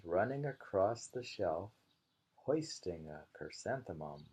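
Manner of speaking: lighter repeat of the haiku; playful second reading; poem recital. Acted. Repeating the mouse haiku for a friend, playful recital.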